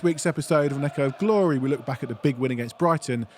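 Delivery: podcast intro read. Acted. Host opening the fan podcast, announcer read. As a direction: read the show opener like a host.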